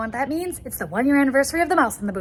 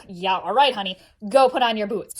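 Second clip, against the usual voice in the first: lower, placating disbelief; kindergarten teacher; 3 semitones lower, 4 dB louder than usual. Acted. Teacher to girl claiming a mouse in her boot, placating. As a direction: humor the child like a teacher. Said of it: "like all kindergarten teachers do".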